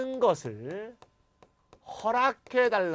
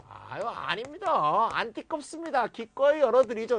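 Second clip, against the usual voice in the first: higher, eager and gracious answer; polite eager reply; 5 semitones higher, 3 dB louder than usual. Pretend. Polite person answering a window request, eager. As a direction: play the overly polite neighbor. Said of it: "이렇게 하면 되겠죠".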